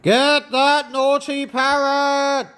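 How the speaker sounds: acted yell at a runaway parrot; story character yelling an order. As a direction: call out as if starting a chase. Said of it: "Stop yelling".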